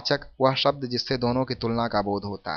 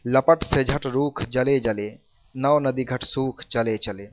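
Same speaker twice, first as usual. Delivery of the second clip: slow, measured poem reading; unhurried recital of rhymed verse; verse recitation; slower than usual. Acted. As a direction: recite the couplet slowly, word by word.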